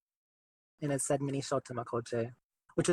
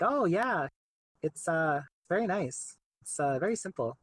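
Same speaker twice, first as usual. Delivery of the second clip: imitated French-Canadian accent, higher on the opening; Quebecois French accent; 4 semitones higher than usual. Artist quoting the goalie's reaction to the helmet, in a Quebecois accent. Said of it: "he has a really thick Quebecois, like, accent".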